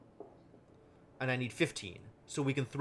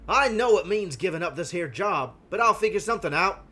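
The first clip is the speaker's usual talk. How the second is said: put-on playful British accent, a touch louder; hammed-up British accent; 5 semitones higher, 7 dB louder than usual. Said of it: "That's a very good British accent".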